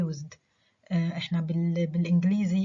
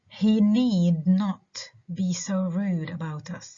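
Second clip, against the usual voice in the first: slow model sentence, "need" and "rude" stressed; stressed verb and adjective. Shown as a demonstration. Teacher modelling the example slowly, "about us" unstressed. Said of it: "The only two stressed words".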